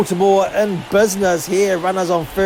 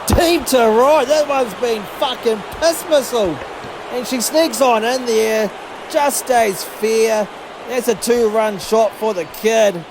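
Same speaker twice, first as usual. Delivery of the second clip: excited home run call; 4 semitones higher than usual. Real, not acted.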